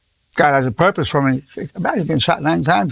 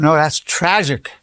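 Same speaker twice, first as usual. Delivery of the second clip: sincere; slower than usual. Retold or imitated. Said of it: "But I said to him".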